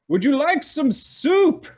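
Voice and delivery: high sugary sing-song invitation; sweet host offer. Acted. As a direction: croon the offer of soup sweetly. Nossix offers soup, much higher.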